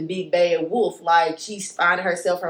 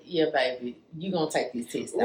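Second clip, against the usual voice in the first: coaxing friends; 3 semitones lower, 6 dB quieter than usual. Retold or imitated. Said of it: "They like".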